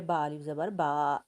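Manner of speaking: बा अलिफ ज़बर बा with the long alif vowel stretched; drawn-out vowel. Shown as a demonstration. Teacher showing pupils how to stretch alif, drawn out. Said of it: "इसको खींचे".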